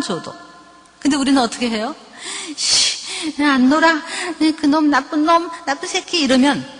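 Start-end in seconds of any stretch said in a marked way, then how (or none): 2.6-6.2 higher-pitched mock tantrum; sulky angry child. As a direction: mimic a little boy huffing about his friend. Acting the angry child again.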